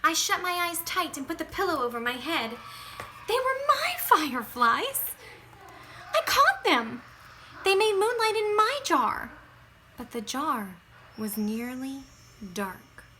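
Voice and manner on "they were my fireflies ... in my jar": anguished protest. A narrator's reading. Child's distressed inner protest.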